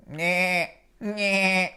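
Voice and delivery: quiet nasal-free bleat imitation; goat bleat "nyeh". Shown as a demonstration. Storyteller bleating like the goat Billy for the kids. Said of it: "Pretty good at the goat sound".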